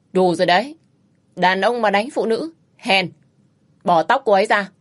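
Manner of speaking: man ordering a husband to let go of the woman; stern warning. Acted. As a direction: cut him off with cold authority. Stranger stops wife beating.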